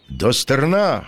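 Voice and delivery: high-pitched order to the crew; narrated helmsman's order; commanding. A narrator's reading. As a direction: call the command with lifted pitch, little extra volume. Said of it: "командував він".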